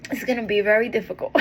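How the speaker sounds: laughing through the words; real laugh breaking into the line. Real, not acted. Laughing while telling viewers it gets easier.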